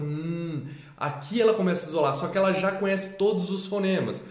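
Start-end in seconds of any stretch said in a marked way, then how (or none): 0.0-0.7 "n" as a soft, sustained nasal sound; fonema N isolado. Shown as a demonstration. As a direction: hold "n" on its own, no vowel. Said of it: "começa com n". ("n" baixinho e prolongado, só o som)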